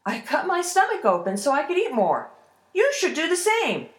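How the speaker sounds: high-pitched, breezy suggestion; nonchalant. Acted. Ash lad tricks the troll into copying him, nonchalant. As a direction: toss it off with a shrug. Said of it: "the ash lad shrugged".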